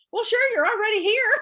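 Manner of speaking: high and loud, retelling the client's cheerful shrug; amused customer. Retold or imitated. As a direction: toss it off brightly, like it's obvious. Client shrugs off the Avon mix-up.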